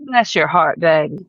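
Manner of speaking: sweet words with judgment underneath; sweetly judging. Acted. Southerner pitying someone they secretly judge, falsely sweet. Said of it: "we may say things very sweetly".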